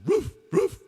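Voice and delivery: high, punched doggy woof; sharp high dog bark; joke dog barking. Acted. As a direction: bark the words like an excited dog. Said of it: "The dog says".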